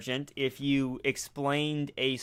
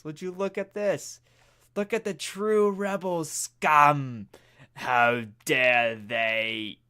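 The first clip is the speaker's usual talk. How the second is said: mock outraged robot. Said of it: "anything that I did as H K".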